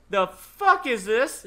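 mom's shocked question. Retold or imitated. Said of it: "my mom don't cuss".

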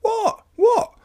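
breathless question. A narrator's reading. Child asking Grandma urgently, breathless and high. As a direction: gasp it out as an excited child. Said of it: "asked breathlessly".

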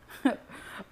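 short acted chuckle; brother's mocking chuckle. A narrator's reading. Brother laughs at angry Cyrus, short chuckle. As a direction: chuckle at him briefly. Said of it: "he laughed".

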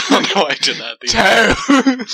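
giggling through the words; laughing at yourself. Real, not acted. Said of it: "laughing after own bit".

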